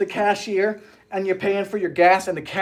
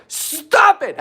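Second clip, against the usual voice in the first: high happy protest; excited protest; 8 semitones higher, 4 dB louder than usual. Real, not acted. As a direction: protest with delight. Repeat of the protest.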